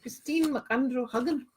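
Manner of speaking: playful attempt at a Scottish accent. Shown as a demonstration. Host tries a viewer's name for laughs, mock Scottish accent. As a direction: try the name in a put-on Scottish lilt. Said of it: "Do I say that with a Scottish accent?".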